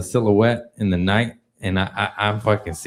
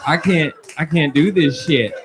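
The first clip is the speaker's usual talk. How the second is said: higher, panicky tripping plea; mock panic; 5 semitones higher than usual. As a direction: play the freaked-out guy begging the cop. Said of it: "I'm like".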